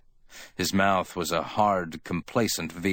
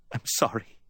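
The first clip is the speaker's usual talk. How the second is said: high, small whimper; 4 semitones higher than usual. A narrator's reading. Rebuked woman apologising to Sam, whimpering. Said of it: "she whimpered".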